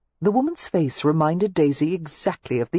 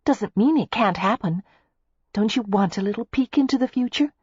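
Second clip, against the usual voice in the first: high, coaxing tease; playful; 6 semitones higher than usual. A narrator's reading. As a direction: lure him with a playful peek. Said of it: "Daisy told him playfully".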